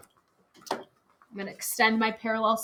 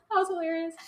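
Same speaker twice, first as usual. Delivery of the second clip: 1 laughing; 4 semitones higher, faster than usual. Real, not acted. Laughing after student's joke.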